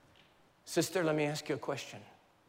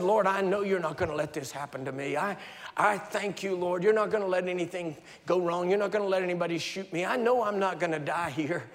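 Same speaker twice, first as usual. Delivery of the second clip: louder, insistent claiming prayer; pleading prayer; 3 semitones higher, 4 dB louder than usual. Retold or imitated. Preacher retelling his frightened prayer, loud and insistent. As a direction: declare it to God with rising urgency. Retold desperate prayer to God.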